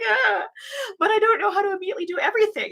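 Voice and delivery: high, fast, exaggerated whine; mock whining. New hire protesting to the office manager, mock whining. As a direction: protest like an overwhelmed trainee, high and whiny.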